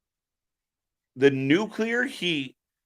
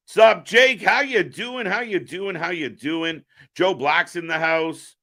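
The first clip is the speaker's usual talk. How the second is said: higher, sing-song greeting in imitation; imitating how he talks; 5 semitones higher than usual. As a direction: mimic his repeated bouncy hello. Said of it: "That's really how he talks".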